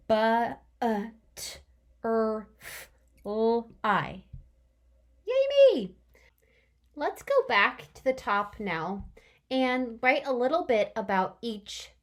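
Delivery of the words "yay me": high, loud whispered cheer. Real, not acted. Teacher cheering herself in a high loud whisper.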